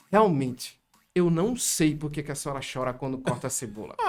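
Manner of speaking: breathy whisper breaking into laughter; laughing confession. Retold or imitated. Son admitting to his mother he doesn't know, laughing. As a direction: admit it while giggling.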